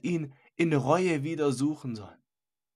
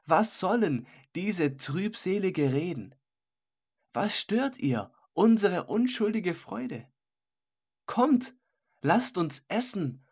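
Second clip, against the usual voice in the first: scoffing reveler; 3 semitones higher than usual. Acted. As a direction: laugh off the old man's gloom. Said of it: "rief jetzt Fleisches Sicherheit dazwischen".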